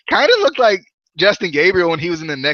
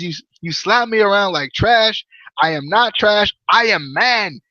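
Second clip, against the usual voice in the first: indignant mock Indian accent, higher pitch; Mahabali Shera; 4 semitones higher, slower than usual. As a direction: badly imitate an Indian wrestler declaring himself. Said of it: "quit with this terrible accent".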